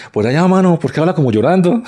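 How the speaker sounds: put-on Santanderean accent. Santandereano answering a Bogotá woman's question, mock Santander accent. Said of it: "unos santanderianos que estaban hablando con una rola".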